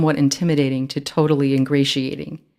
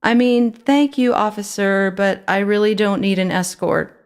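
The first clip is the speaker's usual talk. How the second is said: more reasonable tone; 6 semitones higher, 3 dB louder than usual. A narrator's reading. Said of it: "a more reasonable tone".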